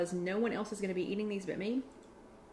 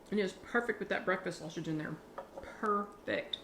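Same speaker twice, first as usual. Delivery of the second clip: mouth full; 4 dB quieter than usual. Real, not acted. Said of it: "Sorry to talk with my mouth full".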